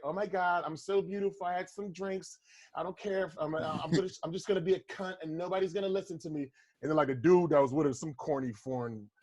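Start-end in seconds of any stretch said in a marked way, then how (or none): 0.0-6.4 mock self-absorbed character. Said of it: "I'm doing a character".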